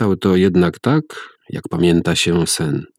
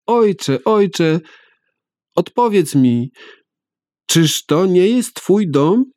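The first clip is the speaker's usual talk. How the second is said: put-on child pleading; 12 semitones higher, slower than usual. A narrator's reading.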